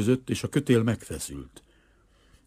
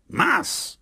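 very high, brief yell; yelled command. A narrator's reading. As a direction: yell it high without full volume. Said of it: "ordította Kazimir".

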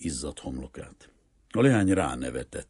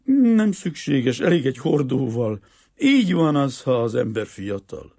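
high, loud, amused merchant voice; mildly hammed-up snigger, without real laughter; 10 semitones higher, 8 dB louder than usual. A narrator's reading. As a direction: pitch it high and loud, dragging the opening words. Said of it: "A kereskedő vihogva nevetett".

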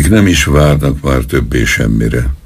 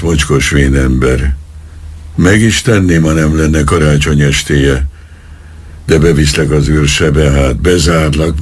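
stream of abuse. Acted. Policeman threatens the old vagrant with his pistol, a raging tirade. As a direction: pour out threats and insults. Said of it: "Ömlött szájából a szidás".

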